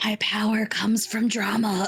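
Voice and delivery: hushed, whispered voice. Playing a character close to another: whispering. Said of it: "And I whisper".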